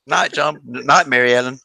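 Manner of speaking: high, sing-song goodnight calls; Waltons goodnight. Retold or imitated. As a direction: play a Waltons family member saying goodnight. Answering the Waltons goodnight bit.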